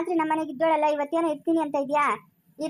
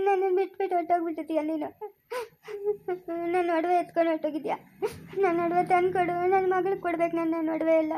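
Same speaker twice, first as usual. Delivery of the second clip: ghostly weeping; 3 dB quieter than usual. Acted. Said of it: "ಯಾರತ್ತೆ ಅಳ್ತಾ ಇರೋದು?".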